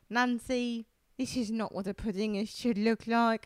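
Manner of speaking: lightly voiced British judge; mildly disapproving British accent. British judge gently faulting Nancy's pudding, mock British. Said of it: "the judges are like".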